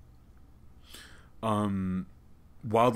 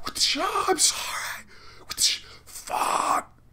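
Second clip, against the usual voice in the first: whisper; 3 dB louder, much slower than usual. Pretend. Mock grovelling after a pun.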